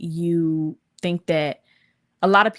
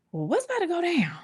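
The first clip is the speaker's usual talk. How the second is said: whispered, wary aside to oneself; retold whisper; 11 semitones higher, 3 dB quieter, faster than usual. Reacting to teammates lined up outside the bathroom, whispered. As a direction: recount it in a quick whisper.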